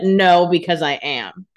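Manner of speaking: slow, loud, smug comeback; smug retort. Retold or imitated. Co-host voicing Catherine's smug answer, slow and loud. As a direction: say it like you're the deepest one there.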